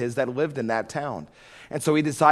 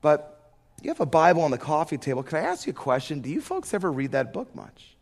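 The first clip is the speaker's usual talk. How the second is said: casual question. Retold or imitated. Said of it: "in just this casual fashion".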